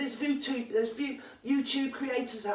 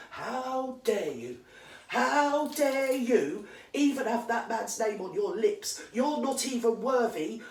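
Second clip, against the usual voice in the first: indignant outrage; slower than usual. Real, not acted. Outraged rant at podcaster.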